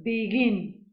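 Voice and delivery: "begin" stressed on the second syllable; "begin" as be-GIN; stress on last syllable. Shown as a demonstration. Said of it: "tienen el acento en la última sílaba".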